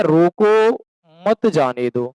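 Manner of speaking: रोको held, then मत जाने दो; pause after रोको. Acted. Sepoy reads the officer's board to his mate, pausing after रोको. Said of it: "मौन व्रत है इनको".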